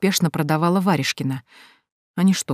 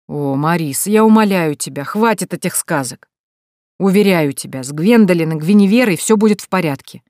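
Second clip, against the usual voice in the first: irritated exclamation; 4 dB louder than usual. Acted. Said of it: "раздражённо воскликнул мужчина".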